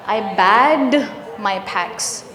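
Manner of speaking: bagged ending in a voiced D. Shown as a demonstration. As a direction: say bagged as "bagd", voicing the end. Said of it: "this is voiced".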